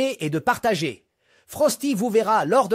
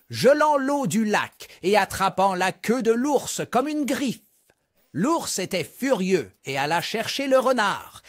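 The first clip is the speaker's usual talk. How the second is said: storytelling narration. A narrator's reading. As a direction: tell the fable as if to kids gathered round. Reads a fable to children. (voix de conteur pour enfants)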